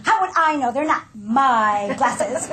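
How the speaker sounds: dismissive, slow, put-upon retort; irritated tone. Retold or imitated. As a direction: brush him off as if it is not your problem. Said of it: "Notice the tone of voice".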